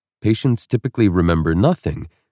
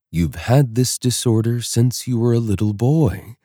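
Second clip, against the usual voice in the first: light French accent, lightly voiced doctor; 2 semitones higher than usual. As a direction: read it with a thick French accent. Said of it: "in his thick French accent".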